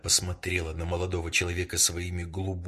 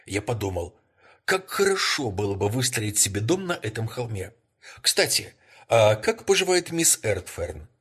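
higher, louder, quick eager talk; lightly eager chatter; 5 semitones higher, 4 dB louder than usual. Acted. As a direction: keep the exclamation going, raised and lively. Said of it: "воскликнул Рекс".

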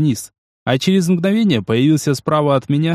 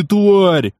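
higher, furious snarl; 6 semitones higher, 4 dB louder than usual. Acted. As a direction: snap тварь in rage. Spat on, thug erupts.

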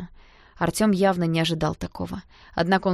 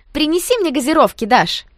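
high, loud shout across the room; calling out; 8 semitones higher, 9 dB louder than usual. A narrator's reading. Friend calling to Dasha, loud high shout. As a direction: call after her over the music. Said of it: "крикнула вслед Ленка".

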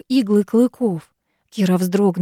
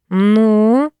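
impatient; 5 dB louder than usual. Acted. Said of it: "поторопил князь".

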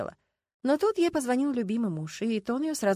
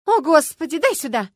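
loud, high exasperated outburst; fed up, grab the phone; 8 semitones higher, 11 dB louder than usual. Acted. Люська, exasperated, demands the phone back loudly.

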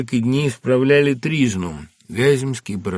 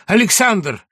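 joyful shout; 12 semitones higher, 7 dB louder, slower than usual. Acted. Friend calls out at station.

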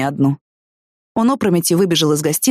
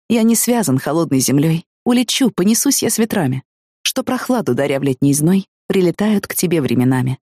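poem reading. Acted. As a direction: read the verse gently and evenly. Poem read aloud in story.

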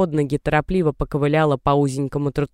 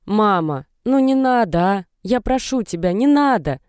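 hysterical shout; 6 semitones higher than usual. A narrator's reading. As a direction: plead into the phone, breaking into a hysterical cry. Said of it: "истерически закричала в трубку Даша".

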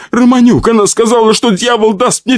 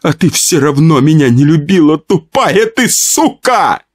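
high, wailing reproach; tearful tirade; 11 semitones higher than usual. Acted. Pyotr pouring out jealousy at his wife, crying. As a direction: rant in a high, hurt wail. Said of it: "заплакал Пётр".

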